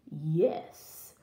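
put-on wolf faking a girl's voice; badly disguised wolf; wolf's squeak. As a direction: squeak it with little voice, mostly breath. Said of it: "squeaked the wolf".

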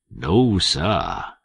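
nervous Southern drawl; Jim, nervous slave. A narrator's reading. Jim denying to Tom, meek and nervous. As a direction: answer meekly and quickly.

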